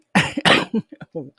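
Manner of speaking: harsh cough into the mic; a real hacking cough; coughing fit. Real, not acted. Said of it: "I'm coughing in your ear".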